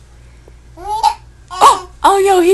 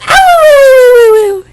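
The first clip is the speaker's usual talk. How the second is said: hiccup giggles; 4 semitones higher, 7 dB louder than usual. Real, not acted. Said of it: "I think you're trying to laugh, but the hiccups don't work".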